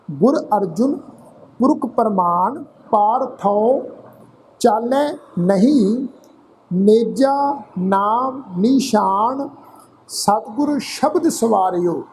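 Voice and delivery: slow, measured Gurbani reading with drawn-out word endings; scripture recitation. Shown as a demonstration. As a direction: recite phrase by phrase, pausing between.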